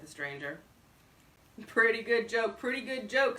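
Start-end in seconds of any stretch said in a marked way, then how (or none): 1.7-3.4 amiably. A narrator's reading. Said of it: "said Bullard amiably".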